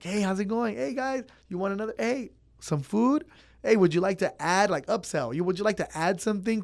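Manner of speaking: upbeat server pitch. Retold or imitated. Imitating upselling customers at counter.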